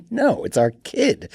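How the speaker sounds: high, slow, put-on dad voice; incredulous father brushing off greed; dad's voice. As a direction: squeak it out in disbelief. Dad refusing, wife wants money.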